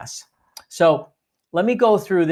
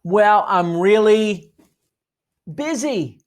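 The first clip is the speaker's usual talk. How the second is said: busy brush-off; 5 semitones higher, 4 dB louder, slower than usual. Retold or imitated. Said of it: "What are they gonna say?".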